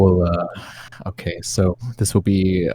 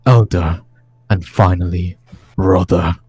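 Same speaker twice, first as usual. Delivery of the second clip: measured, solemn gothic narration; dramatic diary reading. Acted. Game master reading Strahd's tome to the players, dramatic solemn narration. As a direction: read it as an ancient lord recording his tale of woe.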